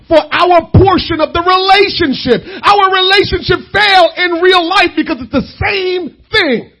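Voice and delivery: heightened, emphatic sermon delivery; insistent pulpit exhortation. Real, not acted. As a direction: drive the point at the congregation. Preaches with raised voice.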